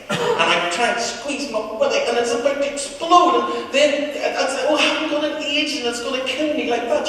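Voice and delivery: put-on boy hamming up a stomach ache, high and loud; faked agony. Schoolboy faking agony to teacher, hammed up. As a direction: overplay the pain to get out of class. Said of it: "Hold on, I'm only acting".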